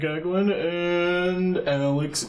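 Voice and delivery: slow announcer intro voice; mock show host welcome; podcast host intro. Shown as a demonstration. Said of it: "I don't like being like".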